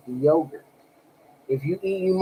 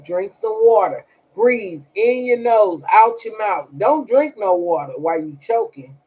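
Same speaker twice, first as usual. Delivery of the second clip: urgent instructions; 2 semitones higher, 5 dB louder than usual. Real, not acted. Tells choking viewer what to do.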